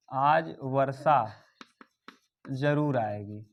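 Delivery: spaced out word by word, as if writing; slow dictation. Shown as a demonstration. Teacher writing out an example for students, slow dictation.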